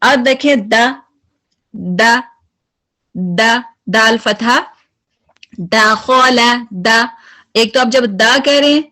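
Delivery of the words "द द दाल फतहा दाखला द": a heavy, clipped द; strong द. Shown as a demonstration. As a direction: demo of strong द. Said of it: "आपकी आवाज जो है वो strong और high".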